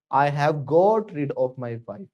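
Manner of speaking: each word slow and clear; slow teaching read; slow model sentence. Shown as a demonstration. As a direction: spell it out slowly for students to repeat. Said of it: "क्या बोलेगा?".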